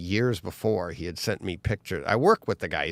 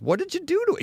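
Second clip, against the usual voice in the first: high, stunned disbelief; shocked customer voice; astonished question; much faster than usual. Retold or imitated. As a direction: ask like you can't believe your eyes. Client reacting to painted bike.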